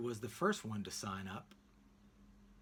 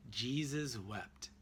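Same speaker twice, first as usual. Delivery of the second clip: very slow, drawn-out recitation; solemn child reciting a verse; slow solemn recital; 2 semitones lower, 3 dB quieter, much slower than usual. A narrator's reading. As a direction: intone it slowly like scripture. Boys recite two-word verse.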